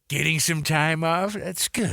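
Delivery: slow, lightly put-on odd sketch character; a hint of a strange comedy character; Will Forte impression. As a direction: drawl it as a mild goofy weirdo. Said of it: "That's a good Will Forte".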